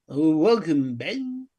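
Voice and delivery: lightly voiced take on someone else; a hint of an impression, drawn-out welcome; Artie impression. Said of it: "give us your Artie impression".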